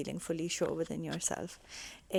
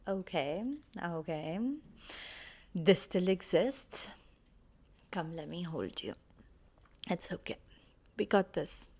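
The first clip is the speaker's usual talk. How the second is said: soothing self-talk. Retold or imitated. Comforting her own inner self through a trigger, gently. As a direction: hold your hurting self close.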